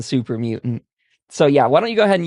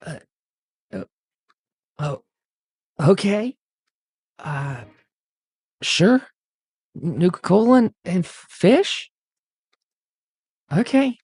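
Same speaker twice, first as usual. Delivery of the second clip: stunned stammer; 5 semitones higher than usual. Acted. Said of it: "stunned for words".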